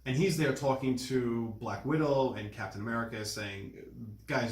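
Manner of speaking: usual speaking voice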